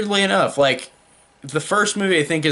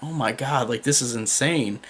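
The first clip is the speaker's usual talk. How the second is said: stunned disbelief; 4 dB quieter than usual. Retold or imitated. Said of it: "sitting there with my mouth open".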